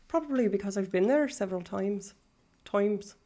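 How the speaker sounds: light Irish accent, leaning on the vowel in "times"; generic Irish lilt. Shown as a demonstration. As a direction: keep up a demonstrated Irish accent. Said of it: "That's how they talk".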